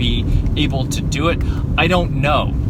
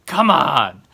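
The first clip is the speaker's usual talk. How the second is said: exasperated outburst. Real, not acted. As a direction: snap at the mosquitoes. Mosquitoes biting her ankles.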